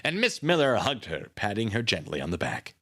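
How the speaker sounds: ordinary delivery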